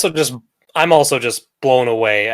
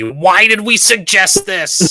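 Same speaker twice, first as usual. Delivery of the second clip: slow, higher, mock-despairing question; mock regret; 7 semitones higher, slower than usual. Mid-game host mocking his own plan, with slow rueful regret. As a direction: groan it out as if already sorry you agreed to it.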